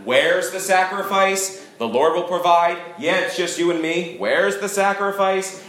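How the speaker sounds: put-on a touch of a worried boy pressing his dad; nervous boy. Isaac pressing his father on the mountain, mildly nervous. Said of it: "Isaac's getting a little more nervous now".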